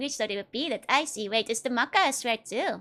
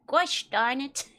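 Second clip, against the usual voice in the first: mock prim curse; 2 semitones higher, slower than usual. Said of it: "it's like".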